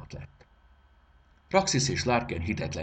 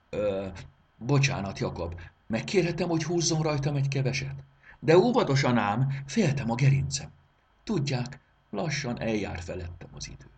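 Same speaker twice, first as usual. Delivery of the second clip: put-on higher, louder fussy old pocket watch; timid old watch; 6 semitones higher, 4 dB louder than usual. A narrator's reading. The old watch asks the boy to wind it carefully, fussy and fragile. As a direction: plead gently, fragile and fussy.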